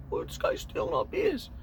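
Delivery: breathy whisper of tattling beachgoers. Retold or imitated. Beachgoers pointing out Rhoda, whispered tattle. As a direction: whisper it like snitching.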